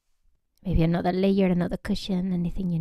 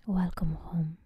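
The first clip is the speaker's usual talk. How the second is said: whispered greeting; 6 dB quieter than usual. Shown as a demonstration. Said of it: "Every breath a whisper".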